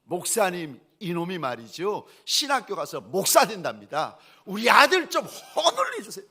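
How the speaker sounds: loud, high-pitched mock outrage, building; huffing angry complaint. Mother complaining to pastor about her son's seminary plan, indignant. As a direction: imitate a fuming mother, climbing to a yell. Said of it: "막 화가 나셔가지고 씩씩거리면서".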